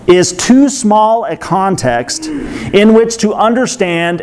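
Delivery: drawn-out words with measured pauses; slow deliberate reading. Real, not acted. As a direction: read the quote slowly, weighing each phrase. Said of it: "I might have to read slowly".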